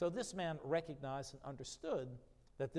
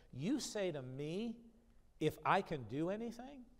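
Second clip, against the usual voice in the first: mildly incredulous, pitched-up repeat; incredulous echo; 4 semitones higher than usual. Acted. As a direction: throw the question back at them. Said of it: "he flips it to him".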